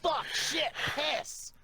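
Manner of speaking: high, loud panicked yelling; imitating a screaming boss. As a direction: mimic a boss freaking out over a broken door. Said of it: "Al starts screaming".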